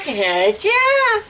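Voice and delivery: high, eager "heck yeah"; eager yes. Retold or imitated. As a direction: jump at the offer, delighted. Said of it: "We're like".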